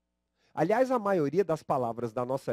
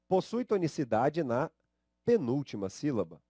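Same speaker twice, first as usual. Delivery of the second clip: slow dictation. Shown as a demonstration.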